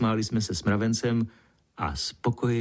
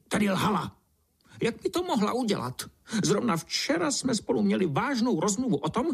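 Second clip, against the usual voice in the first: put-on much higher, querulous old-beetle voice; grumpy beetle spitting; 10 semitones higher than usual. A narrator's reading. Cranky beetle grumbling the road lied, high and querulous. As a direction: complain like a fussy old beetle with rheumatism. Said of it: "černý brouk prskl".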